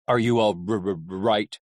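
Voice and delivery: low, halting character voice; stammering concern. Acted. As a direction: ask low, catching on the last word. Hap asks Vic, stammering.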